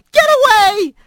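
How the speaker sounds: high frantic shout. Acted. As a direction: scream it at him. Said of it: "he shouted".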